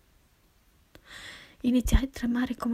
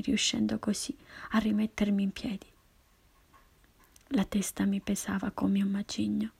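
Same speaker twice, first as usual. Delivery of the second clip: plain reading voice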